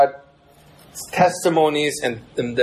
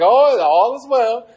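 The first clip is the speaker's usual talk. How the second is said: fake calm; 8 semitones higher, slower than usual. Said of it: "they're just like".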